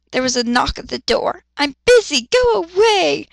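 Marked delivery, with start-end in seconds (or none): 1.6-3.3 loud, higher snapping yell. Acted. Busy captain yelling at a knock, loud irritated yell. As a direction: shout them off the door. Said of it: "he yelled".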